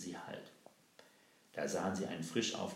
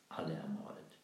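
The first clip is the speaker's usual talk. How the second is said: hushed grief; 4 semitones lower than usual. Acted. Woman tells of murdered children.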